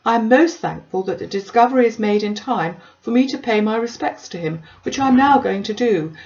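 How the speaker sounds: self-important Collins, puffed up with news; lightly voiced pompous parson.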